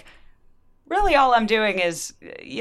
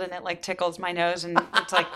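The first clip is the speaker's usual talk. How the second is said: talking between sips of fizzy drink; a sip of drink in the mouth; while sipping a drink. Real, not acted. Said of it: "I'm drinking LaCroix".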